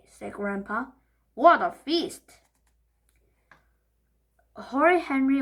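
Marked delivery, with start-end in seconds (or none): 1.3-2.4 slow, loud, relishing; delighted. Acted. Grandpa delighted at the feast. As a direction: savour the sight.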